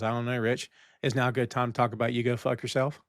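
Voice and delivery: a quiet, unbothered put-down, no heat at all; so calm. Retold or imitated. Jimmy calmly shutting down Richie's ticket question, so calm. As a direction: brush off the question as if it were nothing. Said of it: "Like, so calm".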